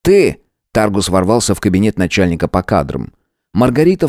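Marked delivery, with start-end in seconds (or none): 0.0-0.4 loud, high furious shout; angry shout. Acted. Boss bursting into the office, furious shout. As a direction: bark it at her as you storm in.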